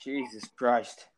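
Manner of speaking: slow exasperated whisper. Real, not acted. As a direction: breathe it out, fed up.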